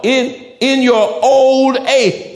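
put-on "old age" drawn out slowly and loud; slow stress on old age. Shown as a demonstration. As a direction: lean hard on "old age".

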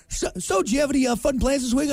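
lightly voiced chatty dentist; a hint of a cheery dentist. Dentist small talk voiced.

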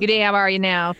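lightly imitated Bruce County local greeting; Bruce County accent. Showing how Bruce County locals greet, swallowed-vowel accent. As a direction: run the words together in rural Ontario dialect. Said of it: "not a lot of vowels".

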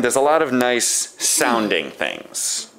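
slow, leaning hard on sounding; sounding stretched with sarcasm; stress on sounding. Shown as a demonstration. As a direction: drag out sounding to mock it. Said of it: "Emphasis on the word sounding".

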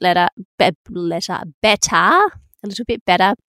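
tripping over 'better' as 'letter', then fixing it; real tongue slip, self-corrected mid-phrase; stumbling over words. Real, not acted. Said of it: "I'm stuttering on my words today".

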